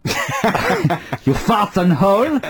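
mock German accent, slow and laughing. Shown as a demonstration. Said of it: "Best said in a German accent".

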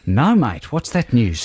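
mock Aussie matey reply; Australian accent. Co-host answers his mate's news, Australian accent. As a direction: play along in an Australian accent.

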